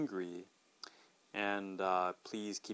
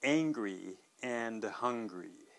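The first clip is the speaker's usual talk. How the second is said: slow careful; much slower than usual. Shown as a demonstration. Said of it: "pronunciation point".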